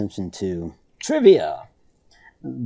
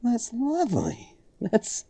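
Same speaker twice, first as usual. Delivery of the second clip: sarcastic; slower than usual. Real, not acted. Sarcasm about chemical in Coke.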